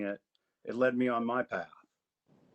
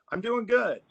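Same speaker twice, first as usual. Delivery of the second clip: put-on happy kid; 11 semitones higher, 5 dB louder than usual.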